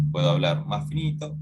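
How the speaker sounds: lightly put-on thinner voice; a slight attempt at speaking thinner. Shown as a demonstration. Teacher showing students a voice change, mildly thinned voice. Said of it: "yo puedo cambiar la voz".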